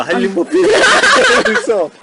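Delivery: high laughing protest. Real, not acted. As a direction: laugh breaking the intro. Cracks up during intro.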